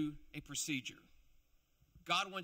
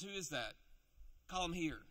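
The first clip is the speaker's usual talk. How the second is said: calm, soft summons; 4 dB quieter than usual. Acted. Jesus calls the man calmly.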